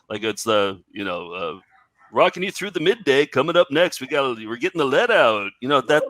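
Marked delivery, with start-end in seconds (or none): 2.1-5.5 puke voice. Retold or imitated. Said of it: "They called it the puking voice".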